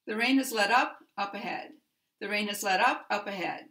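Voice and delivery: first "up" stressed, second "up" light, brisk pace; brisk, lean on "up" of "let up", pass over the next "up"; stress on the particle. Shown as a demonstration. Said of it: "The particle takes the stress".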